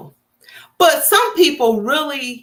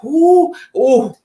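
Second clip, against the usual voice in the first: fired-up wife; 3 semitones lower, faster than usual. Retold or imitated. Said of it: "she telling him the truth".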